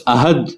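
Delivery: احد with a short a on the alif, slowly; with zabar. Shown as a demonstration. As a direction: say احد with fatha on the first letter. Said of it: "اگر الف کے زبر کے ساتھ پڑھا جائے". (احد کو الف کے زبر کے ساتھ پڑھنا)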